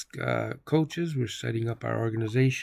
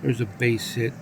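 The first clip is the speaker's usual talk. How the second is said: measured sportscaster call; announcer keeping listeners on the action; baseball play-by-play; 2 semitones higher than usual. Pretend. Calls the baseball game live.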